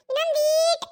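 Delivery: ಈಟು stretched long; drawn-out coaxing. Acted. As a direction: coax slowly, dragging out the vowel of ಈಟು. Child urging elder to step farther.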